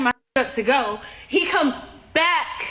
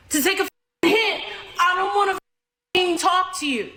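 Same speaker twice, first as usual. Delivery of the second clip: raised-pitch exasperated venting; 4 semitones higher than usual. Real, not acted. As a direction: vent like you are fed up with being bothered. Venting about unwanted advances.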